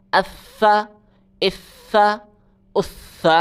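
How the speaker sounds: اسا with the tongue pushed between the teeth; tongue-out tha. Shown as a demonstration. Teacher showing pupils the tongue-out ث in اسا. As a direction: say اسا with a held lisped th sound. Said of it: "زبان باہر نکال کے سا پڑھیں".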